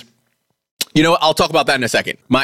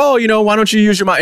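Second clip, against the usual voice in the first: imitated questioners; 8 semitones higher, faster than usual. Voicing people questioning a retired runner.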